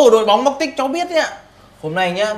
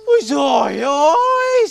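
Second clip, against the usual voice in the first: tearful exclaim; 3 semitones higher, 4 dB louder, slower than usual. Acted. Finding her crying.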